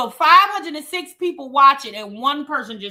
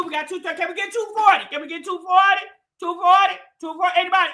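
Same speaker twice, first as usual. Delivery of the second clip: auctioneer; 3 semitones higher, faster than usual. Pretend. Host begging chat for likes, light mock auction call. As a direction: rattle off the bid numbers like a playful auctioneer. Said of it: "I sound like I'm at an auction".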